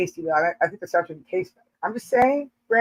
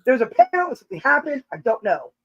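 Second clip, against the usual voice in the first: higher, hurried, half-laughing mock panic; flustered excuse; 6 semitones higher than usual. To the jealous husband, flustered higher excuse. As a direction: blurt it out like a caught fool. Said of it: "And I'm like".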